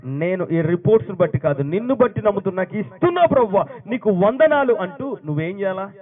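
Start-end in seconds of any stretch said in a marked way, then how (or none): 0.1-4.7 rising louder and higher into thanks; building fervent prayer. Shown as a demonstration. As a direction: let the prayer swell to a triumphant cry. Models a believer's fervent prayer. (ఉత్సాహంగా పెరిగే ప్రార్థన)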